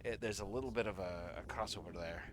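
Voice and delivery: Irish accent as a softened Scottish; soft, musing attempt at an Irish accent. Shown as a demonstration. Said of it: "the Scottish accent just a wee bit softer".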